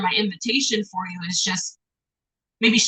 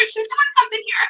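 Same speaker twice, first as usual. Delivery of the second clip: dismissive teacher. Retold or imitated. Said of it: "I feel like teachers".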